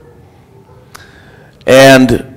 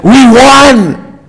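high-pitched, drawn-out victory cry; enthusiastic; 9 semitones higher, much slower than usual. Retold or imitated. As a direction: imitate jubilant fans announcing a win. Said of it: "with an enthusiasm in their voice".

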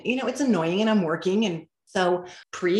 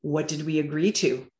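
calm. Retold or imitated. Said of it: "I walk over calmly and say".

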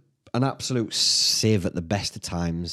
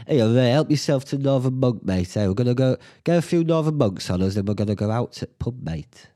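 inviting Ray round, hamming up the eager fan; eager pitch to a guest; 2 semitones higher than usual. Pretend. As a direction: sell it to him like an overexcited host. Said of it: "imagined hosting Ray".

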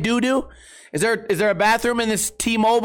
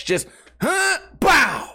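mock blast sound; 7 semitones higher, much slower than usual. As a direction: push out the sound effect. Imitating the push.

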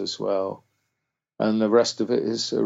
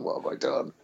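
whisper; 7 dB quieter than usual. Retold or imitated. Dread at being hunted.

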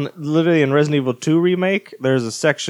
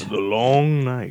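dramatic echo; slower than usual. Acted. Echoing the title dramatically.

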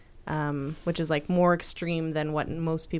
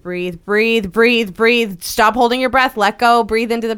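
firm, louder birth-coach urging; coaching through contractions; 4 semitones higher, 9 dB louder than usual. Shown as a demonstration. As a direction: coach her to breathe, pressing each word. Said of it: "a lot of my support is gonna be breathe".

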